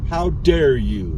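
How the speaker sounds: slow, drawn-out mock indignation; mock outrage. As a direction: play at being offended, stretching each word. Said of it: "I am angry".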